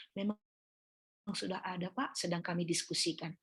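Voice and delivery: reassuring. Retold or imitated. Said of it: "Tapi kalau kita katakan".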